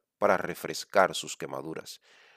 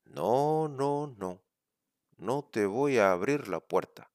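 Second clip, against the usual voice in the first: little pig voice; 4 semitones higher than usual. Acted.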